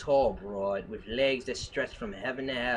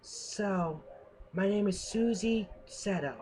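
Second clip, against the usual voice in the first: higher, pleading dame voice; damsel in distress voice; 8 semitones higher, 3 dB quieter than usual. Acted. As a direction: plead like a helpless noir dame. Dame gives her name.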